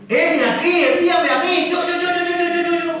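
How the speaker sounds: high, eager volunteering yo, yo, yo; a hammed-up high eager Isaiah. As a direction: shout like a kid picking me, me. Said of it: "y qué dice Isaías".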